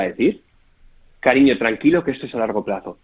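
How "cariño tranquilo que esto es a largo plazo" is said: a mild, gentle mother calming her son; reassuring mother. Retold or imitated. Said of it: "Te lo van a decir así". (madre tranquilizadora, suave)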